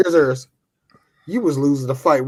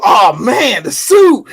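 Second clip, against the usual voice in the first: high, loud mock wail; hammed-up cry of despair; mock anguish; 5 semitones higher, 6 dB louder, slower than usual. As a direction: wail over the lost suit. Mock anguish over lost suit.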